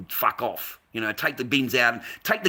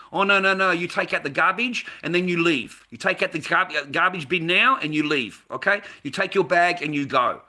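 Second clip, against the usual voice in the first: put-on bossy old woman; 4 semitones higher than usual. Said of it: "I don't need to be talked to like this".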